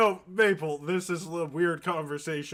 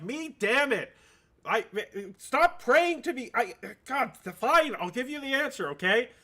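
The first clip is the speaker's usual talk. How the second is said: exasperated, higher pitched god ranting; annoyed god; 4 semitones higher than usual. Acted. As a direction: snap at a pestering worshipper. GM voicing annoyed Green Man god.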